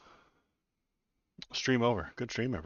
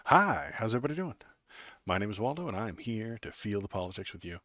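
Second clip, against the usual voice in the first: host intro; 3 semitones higher than usual. Acted. Restarting as show host.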